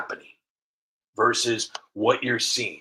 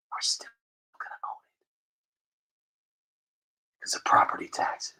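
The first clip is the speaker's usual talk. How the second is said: conspiratorial whisper; 4 dB quieter, faster than usual. Pretend. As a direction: hiss it like a villain's secret. Bigwig's sinister secret aside.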